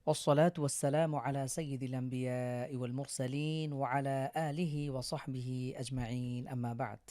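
lecturer's ceremonial Arabic greeting; formal Arabic invocation. Acted. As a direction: intone the Arabic opening formula. Recites formal Arabic opening.

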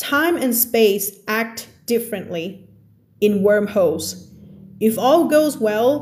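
very slow, careful reading of the text; slow reading aloud. Acted. Teacher reads the story text slowly to her class. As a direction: read the passage word by word for learners.

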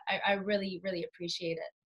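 tearful. Real, not acted. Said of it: "I'm gonna cry".

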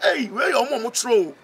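a stunned man cries out in the stadium, loud; excited exclamation. Retold or imitated. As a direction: shout it out in astonishment. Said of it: "Na ɔsɛ".

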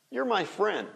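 a quick, weak "yer" for "You're"; alternative contraction. Shown as a demonstration. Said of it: "a gente fala your ou your". (contração reduzida, "You're" soando como "yer")

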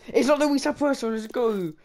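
loud, high relieved yell; excited cheer. Real, not acted. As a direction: celebrate the lucky escape. Relief that a bad player was avoided.

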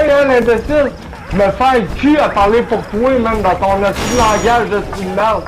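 rapid, insulting Quebec French tirade; fast French rant. Real, not acted. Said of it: "I'm French, man".

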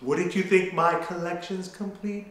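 stuffy-nosed singing; blocked nose. Real, not acted. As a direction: sing through a blocked nose. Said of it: "I can't breathe through my nose".

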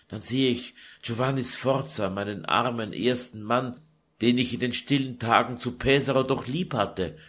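put-on a tired young woman pouring out her grief; Lucretia lamenting. Daughter pouring out her sorrow to her mother, weary.

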